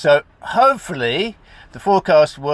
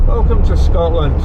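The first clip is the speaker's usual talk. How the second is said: put-on poor Scottish accent; 3 semitones higher, 6 dB louder than usual. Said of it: "my poor Scottish accent".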